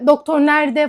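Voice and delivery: retelling a patient shouting for the doctor, mock yell. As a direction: yell for the doctor, half in jest. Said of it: "falan filan diye bağırıyor".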